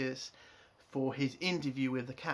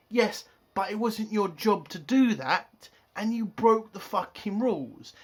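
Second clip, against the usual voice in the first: scolding mum; 5 semitones higher, 6 dB louder than usual. Retold or imitated. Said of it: "and the mum's like".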